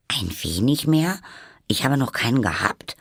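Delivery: high, put-out retort; somewhat touchy. A narrator's reading. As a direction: answer offended, pitch rising on the question. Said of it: "antwortete Alice etwas empfindlich".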